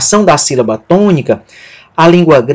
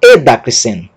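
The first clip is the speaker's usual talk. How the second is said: edacrisen quicker, weight on the opening e-da; alternative stress; 5 semitones lower than usual. Shown as a demonstration. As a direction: offer edacrisen as one possible reading. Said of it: "Alguém poderia pronunciar".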